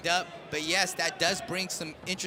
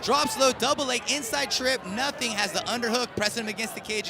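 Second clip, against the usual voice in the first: excited play-by-play; 4 semitones higher, 3 dB louder than usual. Real, not acted. Live fight call, big exchange.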